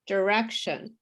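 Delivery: "direction" with "sh" for the T; "direction" as a demo word, T turned to sh; no T sound. Shown as a demonstration. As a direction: say "direction" as "duh-REK-shun". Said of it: "There's no sound of T".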